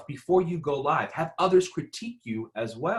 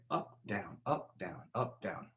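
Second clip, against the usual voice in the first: softer demo of up and down; pitch up and down; 5 semitones lower, 13 dB quieter, slower than usual. Shown as a demonstration. Coach sketching intonation swings for the workshop. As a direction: swing the voice up then down, gently. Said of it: "intonation kinda like a roller coaster".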